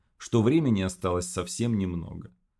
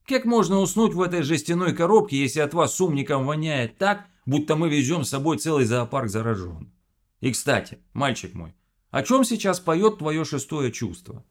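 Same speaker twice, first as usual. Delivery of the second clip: high Odessa grumble; odessa russian accent; 7 semitones higher, 3 dB louder than usual. Acted. Phil grumbles, Odessa-style.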